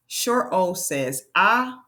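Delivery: ah said short, rising; teacher modelling short O; short O sound. Shown as a demonstration. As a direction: clip O to a quick ah. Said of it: "vowel demo".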